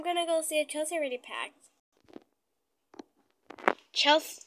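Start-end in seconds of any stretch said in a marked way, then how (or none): 3.9-4.4 calling out. Acted. Calling out for the sister.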